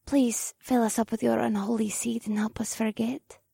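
pouty plea; pleading. Acted. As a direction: beg with a pout. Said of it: "Morgana pleaded as she pouted".

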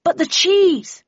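high wail over abandoned food; slow, high-pitched objection; loud protest. Acted. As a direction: cry out in dismay, drawing it out. Protest amid shouted hurry.

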